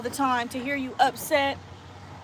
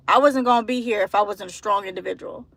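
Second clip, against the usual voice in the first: tearful. Real, not acted. Telling of leaving abuse.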